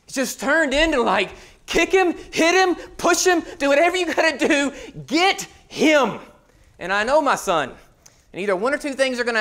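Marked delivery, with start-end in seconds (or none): 1.6-6.2 higher, urgent mock crowd chant; sideline yelling. Parents shouting from the sidelines, higher urgent yell. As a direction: egg the player on like a rowdy parent.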